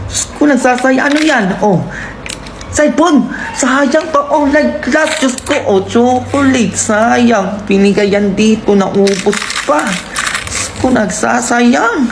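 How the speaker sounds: loud exasperated rant, slowing on complaints; loud ranting mom. Acted. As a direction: shout over every wasted thing. Mother ranting about wasted things. (malakas na reklamo ng nanay sa sayang)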